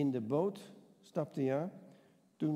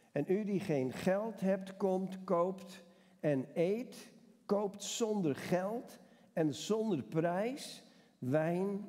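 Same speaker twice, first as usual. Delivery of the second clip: slow, measured Bible reading with lingering words; scripture reading; slower than usual. Acted. Pastor reading Isaiah to his congregation, slow and solemn. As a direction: read it like holy text to the congregation.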